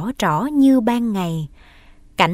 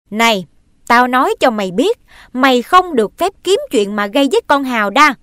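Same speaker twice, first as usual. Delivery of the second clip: stern warning; 3 semitones higher, 6 dB louder, faster than usual. Acted. Stepmother warns the boy.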